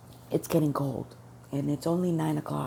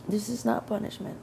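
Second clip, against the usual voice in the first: self-reassurance; 5 semitones higher, 5 dB quieter than usual. Retold or imitated. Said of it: "I just kept repeating that to myself".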